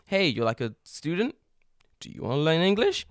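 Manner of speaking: slightly lifted, questioning sales pitch; lightly voiced tout. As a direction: hail passers-by with a light mock sales pitch. Acting out a leaflet tout's pitch.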